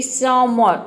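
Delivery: समर said slowly with a long drawn final vowel; stretched demo. Shown as a demonstration. Teacher stretches समर so pupils hear the long ending. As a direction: pull out the end of समर. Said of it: "अ के sound के लिए आपको लंबा खींचना है".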